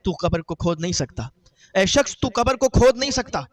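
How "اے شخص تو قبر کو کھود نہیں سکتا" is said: louder and higher, repeating the warning; a voice from the grave raising its warning; stern warning. Acted. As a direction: call it out again so he hears this time. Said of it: "تو آواز آئی".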